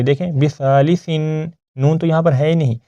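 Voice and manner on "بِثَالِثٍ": بِثَالِثٍ slowly, ending in a clear "in"; tanween n-sound. Shown as a demonstration. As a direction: sound a nun at the end of بِثَالِثٍ. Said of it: "نون کی sound آ رہی ہے". (بِثَالِثٍ کے آخر میں نون کی آواز)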